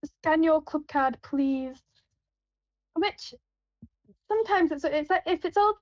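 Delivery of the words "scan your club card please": slow, drawn-out checkout request; till worker script. Shown as a demonstration. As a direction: spell it out like a bored cashier. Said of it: "the Tesco worker d-, vocabulary".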